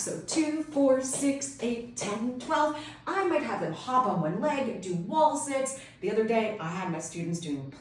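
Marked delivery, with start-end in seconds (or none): 0.3-2.8 high, bouncy count in time with the jumps; counting with jumping jacks. Shown as a demonstration. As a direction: chant it like you're hopping. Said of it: "with jumping jacks".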